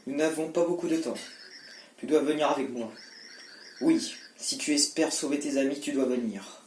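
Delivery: put-on girl voice. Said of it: "j'essaierai de faire une voix de meuf".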